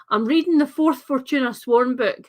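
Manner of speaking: softened Scottish accent for the internet; carefully tone down the Scottish accent; code-switched Scottish accent. Shown as a demonstration. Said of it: "a less sort of, um, code switch for the internet, uh, Scottish accent".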